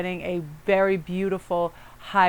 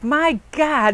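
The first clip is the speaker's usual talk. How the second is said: mock exasperated cry, much higher and louder; 8 semitones higher, 6 dB louder than usual. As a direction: throw up your hands at it. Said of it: "And Ian got so mad".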